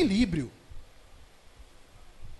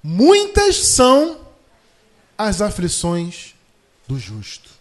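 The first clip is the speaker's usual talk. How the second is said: each word drawn out, louder on Muitas são; slow, solemn reading with long pauses; slow emphatic scripture reading; 10 dB louder, much slower than usual. Shown as a demonstration. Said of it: "Veja só aqui o que diz o salmista".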